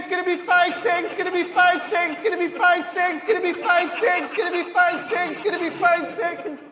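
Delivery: mock the download bar creeping up and stalling; rising download countdown. Mimicking an internet download bar.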